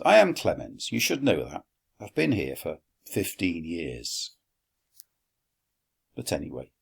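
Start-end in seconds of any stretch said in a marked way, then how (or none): 0.0-4.3 indignant reply. Acted. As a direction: sound wounded at not being known. Slave indignant at being asked.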